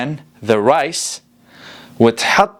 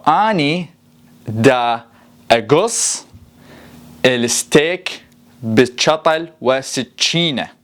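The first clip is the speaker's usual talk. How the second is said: Iraqi Arabic accent; slower than usual. Shown as a demonstration. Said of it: "the Iraqi dialect".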